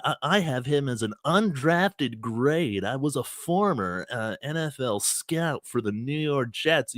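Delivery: lightly voiced know-it-all internet scout, mildly nerdy; a hint of a basement-dwelling fake expert; mocking armchair scout. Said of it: "that just type".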